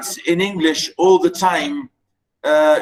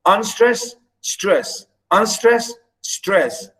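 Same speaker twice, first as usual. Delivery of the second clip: unstress, stress as paired beats with pauses; alternating iambic beat; 3 semitones higher, slower than usual. Shown as a demonstration. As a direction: set each stress apart after unstress. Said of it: "or low and up".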